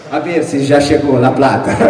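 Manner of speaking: amused, through a laugh. Real, not acted. Author teases about the Nobel money, laughing. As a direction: joke with a chuckle.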